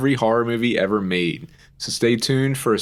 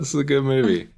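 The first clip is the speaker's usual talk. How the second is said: much higher, mock-gushing approval; hammed-up polite enthusiasm; mock polite praise; 5 semitones higher, faster than usual. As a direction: fake cheer from the back seat. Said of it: "and I'm like".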